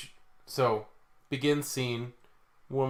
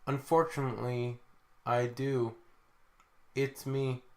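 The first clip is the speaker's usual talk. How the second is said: flat, even robot voice. Pretend. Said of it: "put on my best robotic voice".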